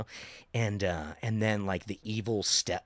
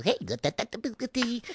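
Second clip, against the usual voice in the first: high elf gibberish; Santa's elf; 11 semitones higher, faster than usual. Acted. Showing the elf act in nonsense, high-pitched elf babble. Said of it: "like Santa's elf".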